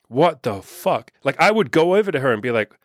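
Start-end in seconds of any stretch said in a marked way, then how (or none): 0.1-1.1 slow, drawn-out disbelief; acted disbelief. Guy baffled by a woman's middle finger, acted disbelief. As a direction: stretch each word out in mock bafflement.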